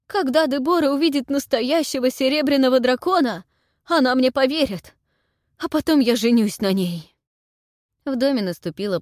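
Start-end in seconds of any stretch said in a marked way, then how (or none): 0.1-7.2 high, loud feverish declaration; frantic resolve. A narrator's reading. Anhel shouting his plan.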